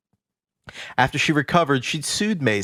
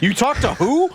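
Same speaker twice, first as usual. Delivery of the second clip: incredulous; 13 semitones higher, 3 dB louder than usual. Real, not acted. Incredulous at funny phrasing.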